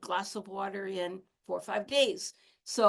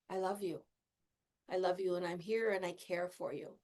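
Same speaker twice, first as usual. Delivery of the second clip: tender self-talk; 2 semitones lower, 4 dB quieter than usual. Retold or imitated. Rocking herself, whispering comfort to herself tenderly. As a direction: soothe yourself like a hurt child.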